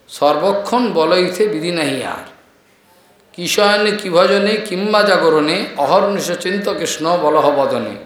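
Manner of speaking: slow, measured chanting of scripture lines; verse recitation. Acted. Preacher quotes the Lord's verse to devotees, measured recitation. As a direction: recite the couplet slowly, line by line.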